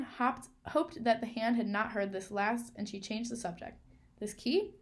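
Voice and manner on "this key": loud, high, pointed question; loud show-off question about the key; loudly. Acted. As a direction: call it out so the hand can't miss it. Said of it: "said Coraline loudly".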